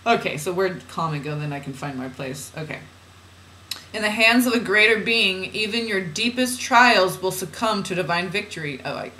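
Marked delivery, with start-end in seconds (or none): 3.9-8.8 measured, deliberate spiritual reading; oracle reading. Acted. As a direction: read it out as solemn guidance. Reads channeled guidance aloud.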